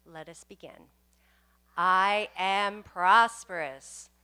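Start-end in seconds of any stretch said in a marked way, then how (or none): 1.8-4.1 loud, slow, ringing declaration; excited affirmation. Shown as a demonstration. Minister leads congregation, first take with excitement. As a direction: proclaim it with full excitement. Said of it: "say it with excitement".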